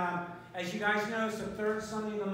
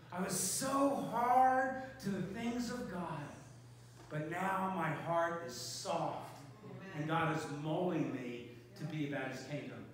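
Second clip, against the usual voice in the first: slow testimony; 3 semitones lower, slower than usual. Retold or imitated. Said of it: "they both said this at the end".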